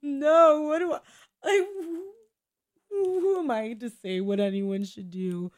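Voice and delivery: frantic yelp of doubt, played up for laughs; mock panic. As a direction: spiral into a hammed-up panic. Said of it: "I'm just like".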